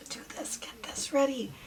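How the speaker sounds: children's secretive whisper, imitated. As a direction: whisper it like kids plotting behind a door. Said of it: "and they were whispering".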